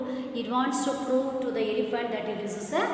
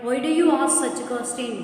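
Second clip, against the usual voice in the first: crocodile, a bit louder and sly; 2 semitones higher, 6 dB louder than usual. Acted. Crocodile questioning the elephant, sly and louder. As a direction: sound cunning, hiding the trap.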